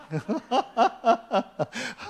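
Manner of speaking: high-pitched run of laughter; hearty laugh. Real, not acted. Preacher warning the committee before its meeting, laughing. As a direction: burst out laughing.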